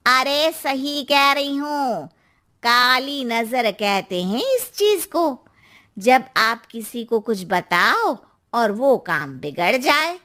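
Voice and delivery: lightly voiced nosy aunty, a touch slow; a hint of a knowing aunty; gossipy aunty. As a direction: play the neighbourhood auntie warning her. Narrator voices Verma aunty.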